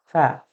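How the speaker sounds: "সা" with a thin stream of air at the teeth; tongue to the upper teeth, release a faint "সা"; faint airy sound. Shown as a demonstration. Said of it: "একদম ক্ষীণ আওয়াজ হবে".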